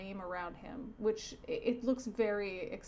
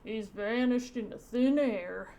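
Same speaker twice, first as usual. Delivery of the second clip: lightly hammed-up chief's astonishment; a touch of cartoon drama, stretched words; police chief; 4 dB louder than usual. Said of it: "So Chief says".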